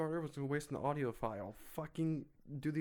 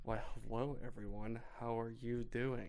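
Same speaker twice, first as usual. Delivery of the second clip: mock generic greeting; 2 semitones lower than usual. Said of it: "Why are you moving your lips like that?".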